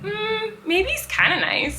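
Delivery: high, slow hesitant musing; mock coy wavering. Belle excusing a horrible Beast, mock coy.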